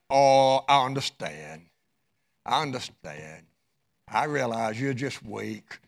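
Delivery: mock understanding. Mock gentle husband he isn't.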